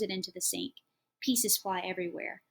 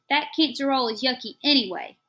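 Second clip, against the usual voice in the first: put-on whiny child; 5 semitones higher, 9 dB louder than usual. A narrator's reading. Child complains about dinner.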